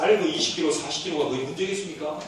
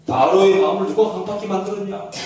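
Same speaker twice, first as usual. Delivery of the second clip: louder, firmer 누가 push; pressing repeated question; 6 dB louder than usual. Acted. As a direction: press him the second time. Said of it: "또 물어요". (다그치듯 더 크게)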